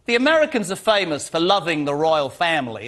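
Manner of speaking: a light put-on American accent on the royal family; breezy American twang, half in jest. Host teasing his American guest in a mock American accent. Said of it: "I don't even know why I did that accent".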